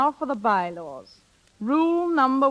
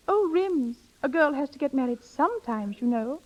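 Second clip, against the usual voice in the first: raised, coy lament that trails down; coy sigh; 4 semitones higher than usual. Acted. Coaching Bobby to hint at marriage to Rims, coy. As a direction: play it wistful and a little helpless. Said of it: "And you'll reply".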